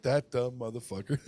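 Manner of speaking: imagined agent sneering through a laugh; mocking laugh. The agent mocks him after hanging up, laughing. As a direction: snicker it behind his back.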